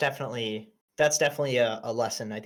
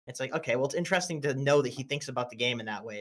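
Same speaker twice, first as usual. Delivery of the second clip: ordinary talk, nothing marked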